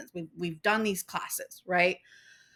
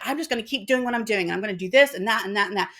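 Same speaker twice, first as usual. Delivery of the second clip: fast, rattled-off mock resolve; quick mimicking of a stubborn friend; rushing mock Trisha; 3 dB louder, faster than usual. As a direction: rattle it off like someone set in her ways.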